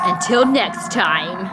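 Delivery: slow, drawn-out mock goodbye; mock sign-off. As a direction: parody a vlogger's outro. Mocking the vlogger's sign-off.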